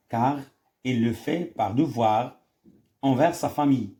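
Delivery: slow, drawn-out reading of the options; reading the question. Shown as a demonstration. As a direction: spell out each choice slowly for the class. Reads answer slowly. (قراءة بطيئة للسؤال)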